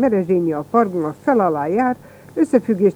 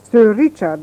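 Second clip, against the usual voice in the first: respectful; 2 semitones higher, 6 dB louder, slower than usual. Acted. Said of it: "mondtam én tiszteletteljesen".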